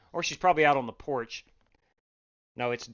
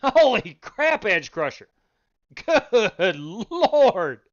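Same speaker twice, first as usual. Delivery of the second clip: helpless high laughter over the wreck; wheezing with laughter at a crash; laughing fit; 5 semitones higher, 8 dB louder, slower than usual. Real, not acted. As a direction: crack up, can barely get words out. Host cracking up at crash replay.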